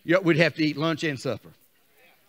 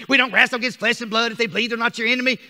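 fast recited saying; 5 semitones higher, 4 dB louder, faster than usual. Shown as a demonstration. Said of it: "How we say this all the time".

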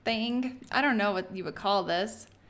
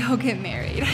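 normal talking voice

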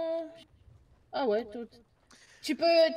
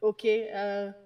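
English speaker's accent in French; halting French with an English accent; foreign accent in French. Real, not acted. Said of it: "Désolé, mon français est, pas, est un peu mauvais".

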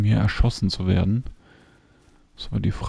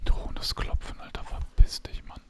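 whispering; 5 dB quieter than usual. Real, not acted. Hunting game, hiding from prey.

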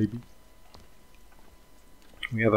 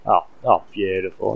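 put-on loud, gushing Australian old lady saying beautiful; delighted old Aussie lady; 8 dB louder than usual. An old Australian lady gushing over her fish in a Chinese restaurant, in a loud, delighted Australian voice. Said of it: "this old lady is just like".

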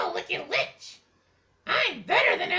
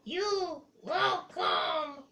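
slow, lower witch voice; Cave Witch voice; 4 semitones lower, 4 dB quieter, much slower than usual. Acted. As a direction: sneer it like an old cave witch. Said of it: "Cave Witch".

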